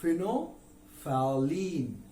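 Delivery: फिनोफैलिन said slowly with the l and th dropped; British English फिनोफैलिन; British pronunciation. Shown as a demonstration. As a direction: say फिनोफैलिन as fee-no-fa-leen, slowly. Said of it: "British English में इसका pronunciation कैसा होता है".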